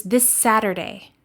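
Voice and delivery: "this Saturday" joined by one held S; one long S in "this Saturday", no gap; linked consonants. Shown as a demonstration. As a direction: stretch the shared S between "this" and "Saturday". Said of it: "you hold that sound a little longer".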